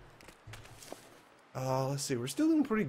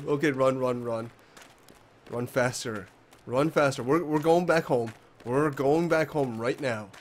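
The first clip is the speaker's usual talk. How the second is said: being chased; 4 dB louder than usual. Real, not acted. Running from wolves.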